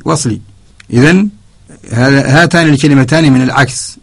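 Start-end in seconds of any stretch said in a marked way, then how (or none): none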